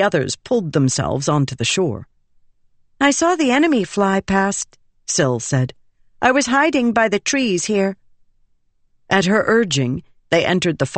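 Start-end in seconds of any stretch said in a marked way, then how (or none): 3.0-4.8 put-on high, light-pitched spirit girl; high-pitched character dialogue, easy volume; Syl's character voice. 6.2-8.0 put-on high, light-pitched spirit girl; high-pitched character dialogue, easy volume; Syl's character voice.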